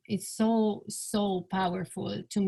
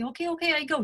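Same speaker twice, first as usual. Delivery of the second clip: lightly imitated husband, higher and grudging; mock reluctant husband; 7 semitones higher, much faster than usual. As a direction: put on the husband's weary "okay". Daughter mimics husband's reluctant compliance.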